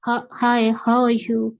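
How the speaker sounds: "hi, how are you?" said with some intonation, not in one flow; expressive intonation. Shown as a demonstration. Teacher showing students intonation on "how are you?", lightly expressive. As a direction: give "how are you?" a styled, conversational tune. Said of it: "आपका style होना चाहिए".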